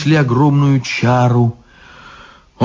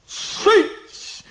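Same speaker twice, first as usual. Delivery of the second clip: hissed bark; 6 dB quieter than usual. Acted. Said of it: "рявкнул изящный чёрт".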